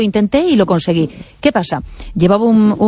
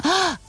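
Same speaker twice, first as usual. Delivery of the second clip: sudden breathy gasp, as if about to speak; demonstrated gasp; 10 semitones higher, 8 dB quieter than usual. Shown as a demonstration. Host shows listeners her urge to talk, mimicked gasp. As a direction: mimic catching yourself with an audible breath. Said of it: "a hacer el ejercicio este".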